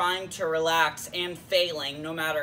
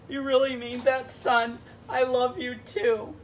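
higher-pitched, moved daddy voice; mock-touched tenderness; 5 semitones higher than usual. Daddy answering his son's declaration of love, touched. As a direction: answer like a father touched to the heart.

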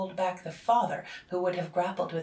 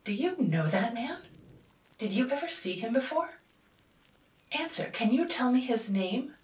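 higher, louder, barely held fury; father interrogating his daughter with suppressed fury; suppressed passion; 7 semitones higher, 6 dB louder than usual. A narrator's reading. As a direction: demand it through held-back rage. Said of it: "in a voice of suppressed passion".

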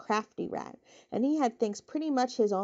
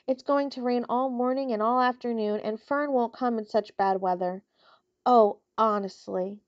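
groaning. Acted. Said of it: "he groaned".

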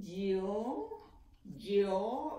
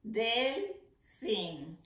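split into syllables. Shown as a demonstration. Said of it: "¿Cuántas sílabas tiene?".

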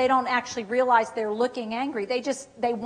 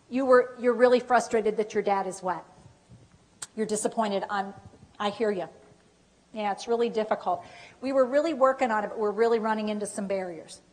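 soft, lower sympathetic acknowledgement; empathetic; 3 semitones lower, 4 dB quieter than usual. Acted. Dementia coach calming a frustrated relative, empathetic. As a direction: gently let them know you hear them.

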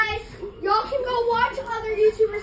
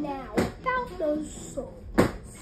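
slow, soft menace; menacing devil; 4 semitones lower, 5 dB quieter, much slower than usual. Acted. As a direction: draw out the threat slowly. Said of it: "the devil".

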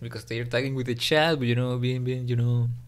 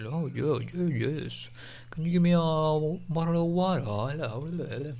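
lightly put-on Spanish accent in English; mock his own Spanish accent asking for water; 2 semitones higher, 5 dB quieter than usual. Spanish streamer imagining himself in a year, light Spanish accent. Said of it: "with the accent and everything".

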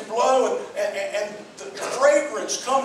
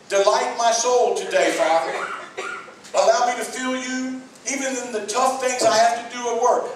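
earnest, raised prayer for strength at work; spoken prayer. Shown as a demonstration. Preacher voices a worker praying before letting someone go, earnest. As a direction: plead with God for help today.

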